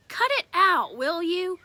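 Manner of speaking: put-on boy fed up with being teased about love; annoyed protest. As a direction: snap back, embarrassed.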